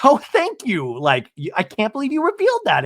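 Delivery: imitating a flustered guest; mock flustered thanks. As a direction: act caught out by the host, half-laughing. Tamra flustered Andy revealed therapy.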